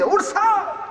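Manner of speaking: angry shout. Retold or imitated. Angry husband bellows at his wife through the door, strained furious yell. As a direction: bellow it in a rage, voice cracking. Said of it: "রাগে আরো কুদি দিছে".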